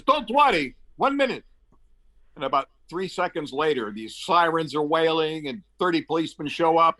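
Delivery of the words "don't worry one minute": much higher, breezy reassurance; confident minister. Retold or imitated. The minister promising to free the stuck equipment, high and airy. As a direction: brush the problem off like it's nothing. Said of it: "He says".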